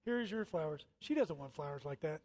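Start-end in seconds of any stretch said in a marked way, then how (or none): 0.0-0.8 robotic monotone. Retold or imitated. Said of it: "monotonous little robotic thing".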